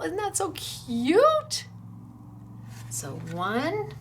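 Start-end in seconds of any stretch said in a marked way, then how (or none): 0.0-1.7 slow, high "so cute" gush. Real, not acted. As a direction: swoon over the card, stretching it out. Gushing over a card.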